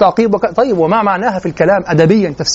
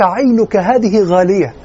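cherishing; slower than usual. Retold or imitated. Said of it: "كأنه يقول لك".

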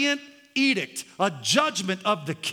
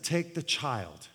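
king's verdict; 13 semitones lower, 9 dB quieter than usual. Acted. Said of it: "The king said".

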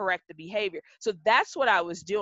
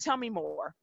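soft, measured calm; 6 dB quieter than usual. Retold or imitated. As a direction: say it softly, without any defensiveness. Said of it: "in a very calm voice".

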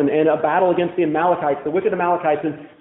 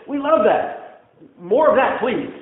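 slow, higher and gushing crowd; mock crowd fan; 4 semitones higher, slower than usual. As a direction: drawl it like a greedy fan. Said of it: "Five thousand men began with Jesus saying".

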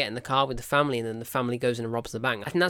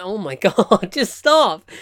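much higher and louder, laughing in disbelief; loud, high retold cry of exasperation; exasperated plea; 4 semitones higher, 9 dB louder, much slower than usual. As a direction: beg them to stop, fed up. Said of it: "I'm like".

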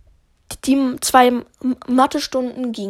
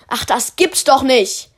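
a hint of a fed-up headmaster; principal; 3 semitones higher, 5 dB louder than usual. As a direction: principal seeing the dented trophies, fed-up outburst. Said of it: "sagte der Schulleiter".

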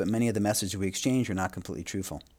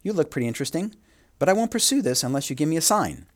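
pitched up, spelling out feelings like a joke; mock blunt announcement; 6 semitones higher than usual. Lecturer to students, hamming up an odd direct confession. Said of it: "imagine how odd it would be to say".

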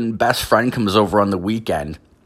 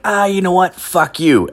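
higher dismissive mock voice; a hint of a smug lawyer brushing him off; 9 semitones higher than usual. Lawyer dumping his client, higher mock dismissive voice. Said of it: "the lawyer's like".

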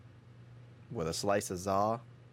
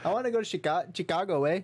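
put-on high, playful Mexican accent; joking along in a put-on Mexican accent; mock Mexican accent; 8 semitones higher than usual. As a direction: ham up a Mexican accent, ending on eh. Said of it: "Mexican accent".

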